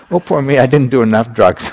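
joking self-pity. Retold or imitated. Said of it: "You know".

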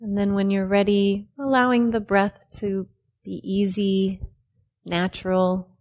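unhurried phrases with long pauses between; measured meditation-teacher delivery; guided meditation. Real, not acted. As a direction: calmly guide them into the body, leaving space after each phrase.

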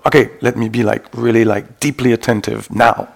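forceful acted self-command; mock willpower. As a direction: order yourself to focus, playfully insistent. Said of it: "something we can only will".

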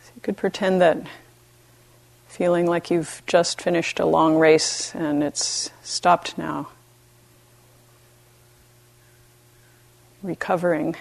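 gentle meditation guidance with long pauses; unhurried, even voice, leaving space between phrases; guided meditation. Real, not acted. Teacher guiding retreatants to befriend themselves, calm meditation voice.

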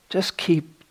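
put-on slow Korean-accented Zen master; thick Korean accent. Zen master giving his main teaching, thick Korean accent. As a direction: imitate a Korean master's English, drawn out. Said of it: "thick Korean accent".

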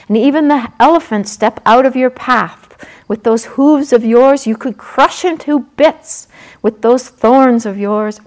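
loud, urgent fairy spirit; forest sprite voice. Acted. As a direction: push him to fight back. Forest sprite urging buffalo.

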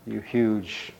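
storyteller's brave prince calling out; bold challenge. Acted. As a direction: order a monster aside, loudly.

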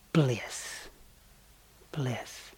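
soft breathy whisper of bliss. Real, not acted. Monk recalling his bliss after the teaching, whispered. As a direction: let the word melt away. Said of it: "from the crown of my head".

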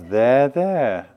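soothing there there. Shown as a demonstration. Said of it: "So we do that with ourselves".

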